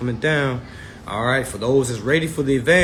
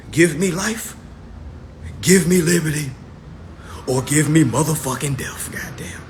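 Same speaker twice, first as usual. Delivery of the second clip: courtroom declaration; 2 semitones higher than usual. Shown as a demonstration. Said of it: "That's how I would say it in".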